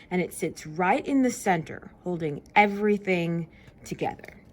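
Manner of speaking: storybook reading voice; reading to children. Acted. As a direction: read the book to kids with energy. Reading the book aloud.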